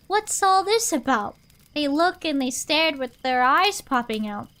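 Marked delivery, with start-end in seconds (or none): 0.1-1.4 shouting. A narrator's reading. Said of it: "the people came shouting".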